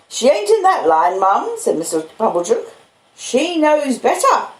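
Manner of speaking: a self-important uncle soothing the sister; Pumblechook's voice. Acted. Pumblechook reassures Mrs Joe.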